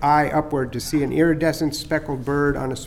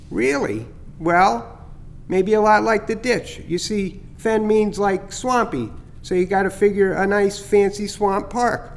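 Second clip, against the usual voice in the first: higher, chirpy bird voice, pleased with his prank; teasing starling; 4 semitones higher than usual. Acted. Starling Chatter teasing Skippy about the scare, higher and chirpy. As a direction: gloat a little over the fake heron scare.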